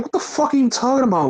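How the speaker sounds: fast, high mock incredulity; retold disbelieving comeback; Seth Rollins. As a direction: imitate a quick, baffled retort, voice up. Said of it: "And Seth's like".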